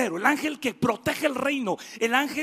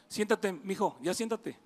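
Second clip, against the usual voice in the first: quiet aside; 5 semitones lower, 7 dB quieter than usual. Real, not acted. Aside telling a boy to sit.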